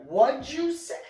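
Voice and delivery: loud, high confrontational outburst; retold angry challenge. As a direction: re-enact flaring up at an insult, pitch jumping. Retold confrontation before the fight.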